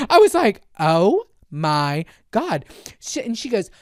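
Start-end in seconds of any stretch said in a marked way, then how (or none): 0.8-2.7 slow, word by word; awed. Retold or imitated. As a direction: let each word land in amazement. Awed reaction to attendant's order.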